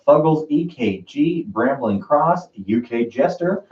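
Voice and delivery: slow, put-on British accent reading Fuggles, E K G; mock British accent. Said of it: "You sound like you're from London".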